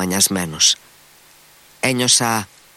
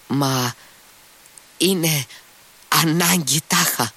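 a raised, slowed cry of protest; exclaiming; 6 semitones higher, slower than usual. A narrator's reading. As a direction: lift the voice and stretch the words. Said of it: "ξεφώνησε αυτός".

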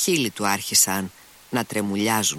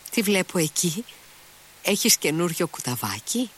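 most offhand voice; 8 semitones higher than usual. A narrator's reading. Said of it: "με την πιο αδιάφορη φωνή".

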